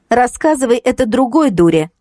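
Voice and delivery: scoffing brush-off; mocking. A narrator's reading. Kristina dismissing her ex, mocking. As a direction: laugh him off. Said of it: "насмешливо ответила Кристина".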